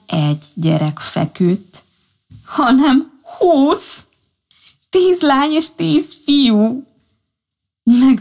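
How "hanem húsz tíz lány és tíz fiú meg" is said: much higher, slow amazed reveal; astonished. A narrator's reading. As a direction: stretch it out in wonder. Waking to find twenty babies. (magasan, lassan, ámulva)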